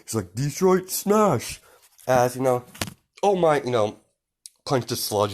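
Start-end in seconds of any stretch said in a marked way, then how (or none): 0.3-1.6 high, slow, drawn-out battle cry; heroic attack call. Acted. All Might hitting the sludge villain, drawn-out attack cry. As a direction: call the finishing move with force. Hero calls out his attack.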